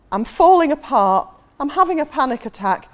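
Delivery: loud, high melodramatic distress; acted panic. Young woman flinging herself on a stranger, mock panicking. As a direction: imitate someone falling to pieces.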